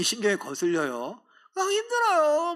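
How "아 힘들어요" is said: very high, slow, loud mock nasal whine; coy nasal voice. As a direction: whine cutely, stretching it. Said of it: "콧소리네".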